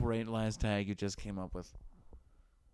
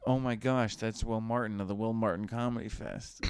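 mock fan gush. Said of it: "let's try that again".

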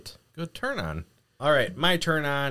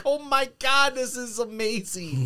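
high, laughing rapture at the screen; amazed gasp; 11 semitones higher than usual. Retold or imitated. Fan watching Hopper's sword fight, amazed squeal. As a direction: squeal it like the best scene ever.

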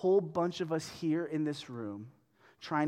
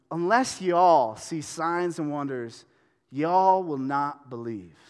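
slow, deliberate reread with "y'all"; mock Southern verse reading; 3 semitones lower, 4 dB louder, slower than usual. Shown as a demonstration. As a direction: read it slowly, leaning on "y'all". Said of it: "I'm gonna reread that phrase".

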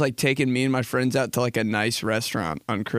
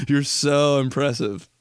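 laughing mockery. Mocking dad while cracking up.

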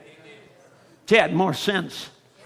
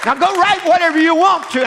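thundering prophet voice; 9 semitones higher than usual. Acted. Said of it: "this prophet's voice screaming in your ears".

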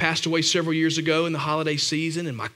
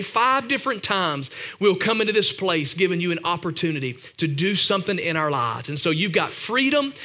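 earnest, steady prayer voice. Acted. Pastor leading the church in closing prayer, earnest. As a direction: pray over the congregation, unhurried.

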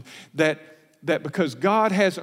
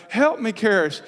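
high, louder mock plea; crying out; 8 semitones higher, 4 dB louder than usual. Father wanting his own rescue in the room, crying out. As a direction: echo the child's desperate call, climbing higher. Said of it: "I'm wanting to cry out".

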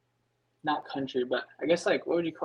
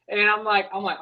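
ordinary delivery

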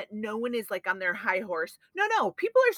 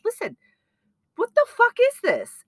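high, loud, furious outburst; retold outrage; 12 semitones higher, 7 dB louder than usual. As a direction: let the anger burst out at the owner. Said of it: "I was really upset".

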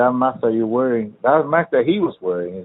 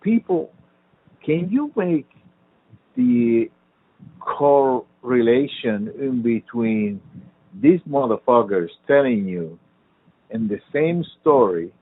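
pissed off; 2 semitones higher, slower than usual. Real, not acted. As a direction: plead in exasperation, drawing words out. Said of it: "pissed me off".

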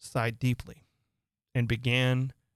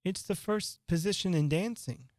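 put-on higher, puzzled girl; 6 semitones higher than usual. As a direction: answer like a schoolgirl. Alice higher.

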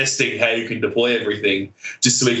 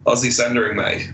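Australian accent, Aussie with a Z sound; Australian accent demo. Shown as a demonstration. Australian host models Aussie Sundering, mate, in Australian accent. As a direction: show him the Aussie way, ozzie mate. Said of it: "It's like Z, not S".

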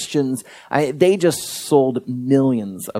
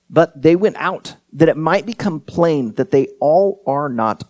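scripture reading; 2 semitones higher than usual. Acted. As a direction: read the passage out with measured weight and pauses. Reads scripture aloud to congregation.

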